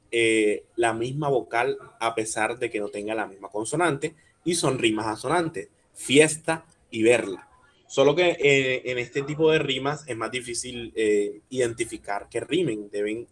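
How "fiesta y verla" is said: "fiesta y verla", pausado, fuerza en "es" y "ver"; rima recalcada. Shown as a demonstration. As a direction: marca despacio la E de "fiesta" y "verla". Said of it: "La fuerza está en es y en ver". ("fiesta y verla" con la primera E tónica resaltada)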